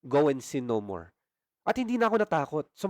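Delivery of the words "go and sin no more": voice of the Lord. Retold or imitated. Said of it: "sinabi niya sa akin".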